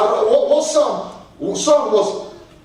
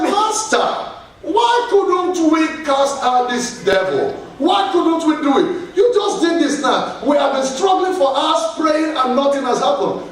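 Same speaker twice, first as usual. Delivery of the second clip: higher-pitched, mildly pleading complaint; lightly voiced frustrated disciples; 4 semitones higher than usual. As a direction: lightly act out puzzled followers questioning their master. Disciples complain to Jesus, acted out.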